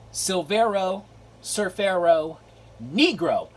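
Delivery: loud mock-Spanish title, word by word. Collector happy with his find repeats the title, mock Spanish. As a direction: proudly announce it in pretend Spanish. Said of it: "how they say it in Spanish".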